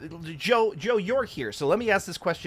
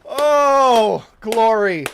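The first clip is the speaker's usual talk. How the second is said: joyful exclaim; 5 semitones higher, 8 dB louder, much slower than usual. Real, not acted. After celebrating the win.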